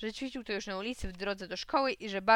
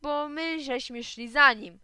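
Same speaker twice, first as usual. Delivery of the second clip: indignant; 5 semitones higher, 8 dB louder, slower than usual. A narrator's reading. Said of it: "Zaczął krzyczeć".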